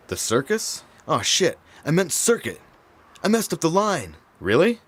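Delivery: rising alarm at a mistake; surprised. Acted. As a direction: caught off guard by a flub. Catches the flubbed line.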